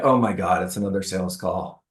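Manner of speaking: low, fading groan; annoyed homeowner. Retold or imitated. Homeowner picking up yet another sales call, fed up. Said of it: "and you're like".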